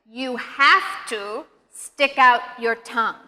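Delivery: slow, with "have" stressed; emphatic repetition. Shown as a demonstration. Teacher repeats the key rule for learners, slow and emphatic on "have". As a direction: lean on "have", pausing before "stick". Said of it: "I'm going to say that again".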